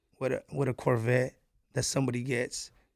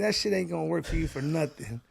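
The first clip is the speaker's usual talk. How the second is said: laughing while imitating dad; 3 semitones higher than usual. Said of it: "He was like".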